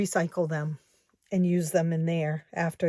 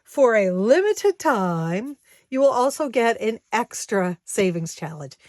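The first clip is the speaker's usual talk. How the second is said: infomercial voice; 3 semitones higher, 3 dB louder than usual. Pretend. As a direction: pitch it like a TV ad. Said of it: "I sound like an infomercial".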